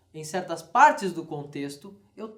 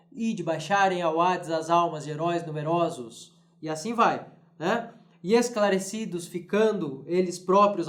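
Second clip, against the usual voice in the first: steady rhythmic verse reading; poetry reading. Shown as a demonstration. Teacher reading the translation to students, rhythmic. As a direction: let the galloping metre carry the lines. Reads translation passage aloud.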